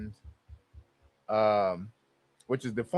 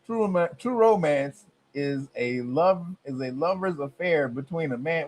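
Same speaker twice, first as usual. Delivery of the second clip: incredulous reread; 3 dB quieter than usual. Shown as a demonstration. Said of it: "What the hell you talking about?".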